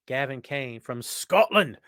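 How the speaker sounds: slow, playful put-on Scottish accent; mock Scottish accent. Greeting a viewer from Scotland in mock Scottish accent. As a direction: roll it out in a hammed-up Scottish accent. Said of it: "You knew I was gonna do that".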